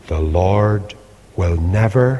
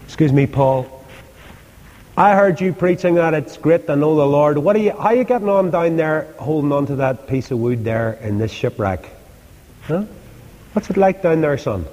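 mocking heckler; 6 semitones higher, faster than usual. Preacher taunts Paul in shipwreck.

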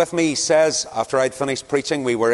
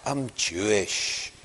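slow, drawn-out imitated Scottish accent; slower than usual. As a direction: retell it in a mock Scottish accent, dragging the words. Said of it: "The other guy says".

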